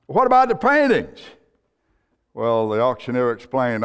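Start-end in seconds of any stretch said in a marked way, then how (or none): 0.1-1.2 high-pitched cry of protest; indignant outcry. Acted. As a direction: blurt it out in dismay from the crowd. Dismayed bidder protests the closing.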